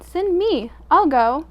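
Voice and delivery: loud, high eager call. A narrator's reading. Buzzard volunteering from the back, loud eager call. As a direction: shout from the back of the room. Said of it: "A loud voice from the back".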